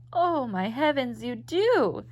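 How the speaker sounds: shocked, as if she can't believe it. Acted. Lucy reacting to Madge, shocked. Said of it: "Lucy said, shocked".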